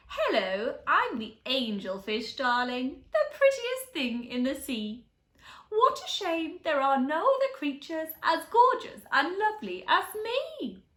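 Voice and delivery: a hint of a diva fish; vain angelfish. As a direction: preen like a pretty fish, darling. Vain angelfish introduces herself.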